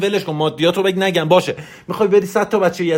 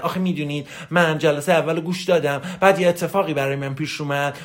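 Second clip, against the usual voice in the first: mock spoiled whining. Coach mimics students making excuses about his course, mock spoiled whining. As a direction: whine mildly, mocking the excuse-makers. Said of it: "ببین، لوس بازی، نونور بازی".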